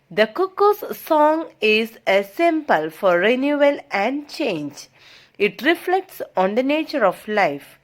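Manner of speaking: slow, measured read-aloud; textbook reading. Acted. Teacher reads English study notes to students, measured reading. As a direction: read it out slowly, phrase by phrase.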